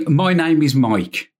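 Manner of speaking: slow Brummie demonstration; Brummie accent. Shown as a demonstration. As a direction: say it slowly in Brummie for someone to copy.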